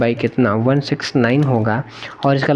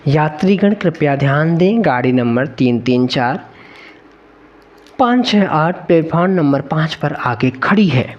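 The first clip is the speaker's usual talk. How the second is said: echoing train announcement; 2 semitones higher than usual. Pretend. Mock train announcement again.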